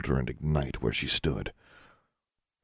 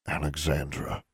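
slightly lowered, restrained voice; low voice; 5 dB quieter than usual. A narrator's reading. Father checking his accusing daughter, low voice. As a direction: say it quietly, holding back. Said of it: "her father said in a low voice".

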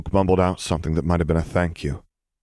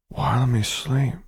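put-on higher, drowsy child question; muttering child; 7 semitones higher than usual. A narrator's reading. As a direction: mumble it half asleep. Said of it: "came the muttered reply".

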